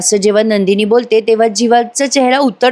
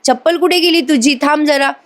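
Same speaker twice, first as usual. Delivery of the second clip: understated mock yell, raised in pitch; mild calling out; 5 semitones higher than usual. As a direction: call after someone with a touch of alarm. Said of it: "जीवा ओरडून म्हणतो".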